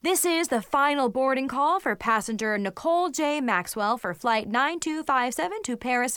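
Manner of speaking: formal PA boarding call; airport announcement. Acted. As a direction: read it like a gate announcer. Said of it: "another disturbing announcement".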